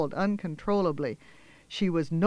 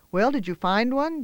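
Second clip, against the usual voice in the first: big sisterly, amused; 6 semitones higher, 4 dB louder than usual. Acted. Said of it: "Janice's tone was big sisterly, amused".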